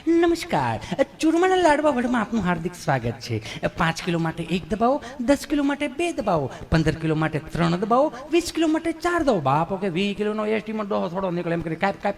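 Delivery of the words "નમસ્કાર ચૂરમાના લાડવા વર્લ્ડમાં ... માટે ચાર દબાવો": sing-song recorded operator; imitating a phone menu recording; IVR menu voice.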